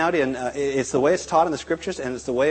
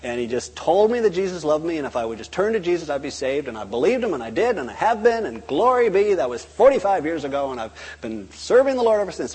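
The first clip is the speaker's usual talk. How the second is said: lightly voiced, lilting testimony, a little higher; testimony giver; 3 semitones higher than usual. Convert telling how he was saved on a bus, testifying. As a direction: gush through a personal testimony. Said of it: "people with testimonies like that".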